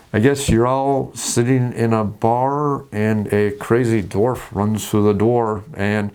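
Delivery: put-on very slow, tired same old opening; a DM rushing out of time, resigned; weary DM. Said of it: "then you're gonna sit there and go".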